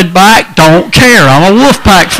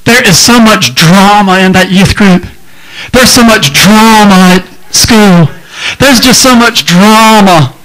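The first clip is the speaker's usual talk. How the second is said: mock teenager; 2 semitones higher than usual. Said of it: "I hear this all the time".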